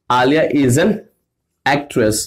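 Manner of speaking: word by word with pauses; chunked example. Shown as a demonstration. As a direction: break the sentence into pieces. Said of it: "मैंने कहा". (टुकड़ों में रुक-रुक कर)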